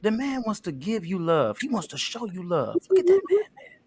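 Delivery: pumped, upbeat pitch for Greg; hyped-up sales pitch. Acted. Second take selling Greg to Tina, hyped up. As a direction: hype him like a promoter. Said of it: "Make him a little bit more fun".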